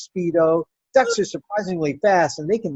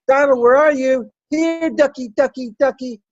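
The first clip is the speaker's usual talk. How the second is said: put-on higher, louder child calling out; calling the duck; 7 semitones higher, 6 dB louder than usual. Little girl searching the chicken pen for her duck, calling out. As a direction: call out across the yard for the pet.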